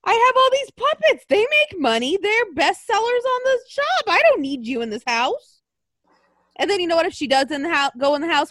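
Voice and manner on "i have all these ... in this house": imitating Bray. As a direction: squeal it out like an offended puppet maker. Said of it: "I bet Bray's like".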